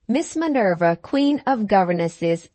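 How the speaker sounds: ordinary delivery, nothing marked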